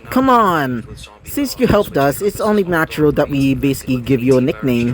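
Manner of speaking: playful. Acted. Twin teasing Rex about his nickname, playful. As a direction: coax him lightly, half joking. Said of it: "saying it with a, almost, like, playful tone".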